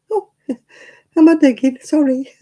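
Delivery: high, loud, mock-innocent dog reply; innocent dog's voice. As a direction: play a dog feigning innocence.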